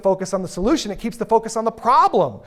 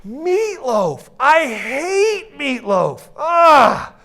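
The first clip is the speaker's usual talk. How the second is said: higher, slow sobbing whine; mock crying whine; 8 semitones higher, 5 dB louder, much slower than usual. Worker finding meatloaf again, in a mock sobbing wail. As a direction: wail over the sandwich. Second day worse complaint.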